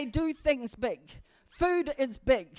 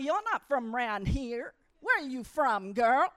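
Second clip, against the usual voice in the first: put-on a light Texan accent, slowed and lower; Texan drawl; 4 semitones lower than usual. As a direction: lightly mimic a friendly Texan driver. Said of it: "this is how they talk".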